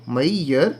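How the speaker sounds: मैयर slowly as "mai-yar"; two syllables. Shown as a demonstration. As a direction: stretch both syllables of मैयर. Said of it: "ये दो syllables हैं इसके अंदर". (मैयर को दो हिस्सों में)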